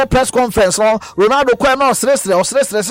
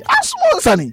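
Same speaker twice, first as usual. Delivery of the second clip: much higher, squeaking mock plea; mock squeal of exasperation; 13 semitones higher, slower than usual. Imitating Ronaldo fed up with critics, squealing very high. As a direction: push the voice way up in mock despair. Retold Ronaldo complaint at press.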